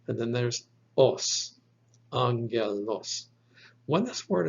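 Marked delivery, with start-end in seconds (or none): 1.0-1.6 os sounded out on its own; isolated syllable. Shown as a demonstration. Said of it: "there are three syllables". 2.1-3.3 angelos said slowly, syllables joined back together; slow teaching pronunciation of angelos; demonstrated pronunciation. Shown as a demonstration. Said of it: "So this is pronounced".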